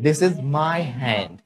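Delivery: very slow, drawn out; slow model sentence. Shown as a demonstration. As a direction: give each word room. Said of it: "teacher models sentence for class".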